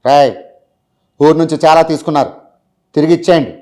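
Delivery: Mahesh Babu impression. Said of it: "Srimanthudu".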